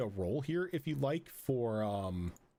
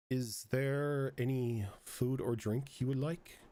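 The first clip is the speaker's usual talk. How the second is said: monotone voice. Acted. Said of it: "just a very monotone voice".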